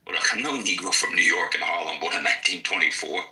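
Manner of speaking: a hint of a mid-Atlantic accent, unhurried; Baldwin's transatlantic accent. Teacher shows how Baldwin performed, in a mild mid-Atlantic accent. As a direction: lightly play Baldwin the performer in a fake-British accent. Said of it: "He changed his accent".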